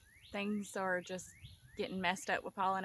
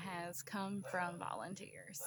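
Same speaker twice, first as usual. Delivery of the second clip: whispering; 2 semitones lower, 7 dB quieter than usual. Real, not acted. Trails off unvoiced.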